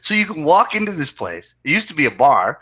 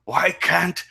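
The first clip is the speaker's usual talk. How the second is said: put-on Cabin Boy voice; slower than usual. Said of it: "he's going like".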